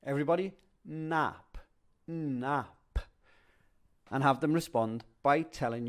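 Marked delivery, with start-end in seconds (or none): 0.0-3.0 teacher voice. Shown as a demonstration. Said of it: "you can say".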